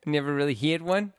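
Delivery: put-on Chicago accent sliding toward South African; badly faked Chicago accent; botched accent imitation. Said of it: "South African".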